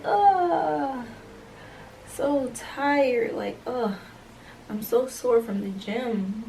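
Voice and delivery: high, hammed-up groaning complaint, slowing at the end; fake tired groan. Faking exhaustion to get out of the date, hammed-up groan. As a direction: overplay being exhausted so he gets the hint.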